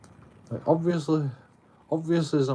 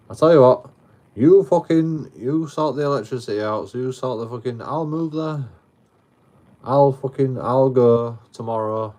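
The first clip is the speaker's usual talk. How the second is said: louder and higher, swearing at the landlord; heated retold outburst; 3 semitones higher, 6 dB louder than usual. Telling off the landlord about the electricity, angry. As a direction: fire it back at him, fed up.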